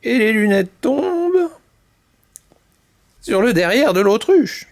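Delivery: animated, expressive storyteller; children's story narration. A narrator's reading. Mamie Poule tells chicks the canary's tale, lively narration. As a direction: tell it vividly to little listeners.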